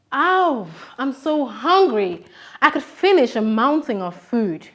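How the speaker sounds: slow, drawn-out moan of hunger; acted hunger. Shown as a demonstration. Teacher acting starving for her pupils, drawn-out moan. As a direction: ham up being starving for the class. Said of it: "I have said I'm so hungry".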